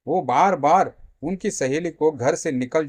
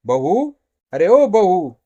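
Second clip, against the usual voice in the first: loud, raised call to the daughter-in-law; angry shouting; 3 semitones higher, 7 dB louder, slower than usual. Acted. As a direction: holler for her as an angry mother-in-law. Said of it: "काहे चिल्ला रही हो?".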